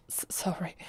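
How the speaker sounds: breathy, stammered apology; flustered. Acted. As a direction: stumble over the word, caught off guard. Flustered by sudden arm on shoulders.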